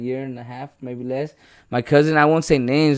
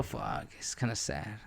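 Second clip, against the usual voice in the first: sad; 3 semitones lower than usual. Real, not acted. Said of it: "Quiere llorar".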